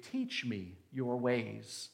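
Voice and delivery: a hint of tender prayer; slow David prayer, gently; humble prayer. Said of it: "as David did".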